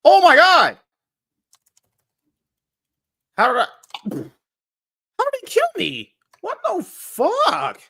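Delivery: high, loud, stretched-out disbelief; raging gamer. Real, not acted. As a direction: scream at the screen in outrage. Gamer loses the match.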